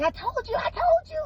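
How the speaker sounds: mimicking mom's triumphant told-you; mock I told you. Mother saying I told you.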